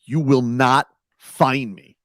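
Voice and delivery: slow, deliberate imitation of a defiant coach; measured mock defiance; mock warning. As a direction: spell out the warning word by word. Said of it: "telling the league".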